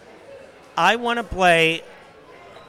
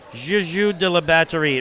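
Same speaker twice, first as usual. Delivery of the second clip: schoolboy French. Shown as a demonstration. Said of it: "I only know how to say one thing".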